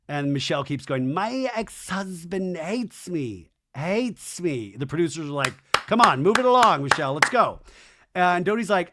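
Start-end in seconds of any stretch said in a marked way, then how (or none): 1.1-4.8 slow, drawn-out self-pitying complaint; mock lament. Michelle retold going on about her ex, mock lament. 5.7-7.6 mock hurrying call. Producers hurrying Michelle along, impatient mock call.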